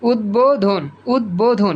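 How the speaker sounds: উদ্বোধন as ud-bo-dhon; ব sounded. Shown as a demonstration. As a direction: clear b after d in উদ্বোধন. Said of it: "এই যে ব উচ্চারিত হইছে".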